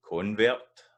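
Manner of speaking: CONvert, weight on "con", drawn out with a rise; stress on first syllable. Shown as a demonstration. Teacher showing the noun's stress pattern, convert stressed on the first syllable. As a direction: stretch convert slowly, leaning on the first syllable. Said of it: "the stress is in the, at the start".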